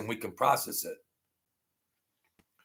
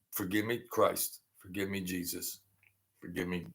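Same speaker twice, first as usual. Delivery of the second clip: hushed plea; 4 semitones lower, 12 dB quieter than usual. Real, not acted. Asking Jesus for forgiveness.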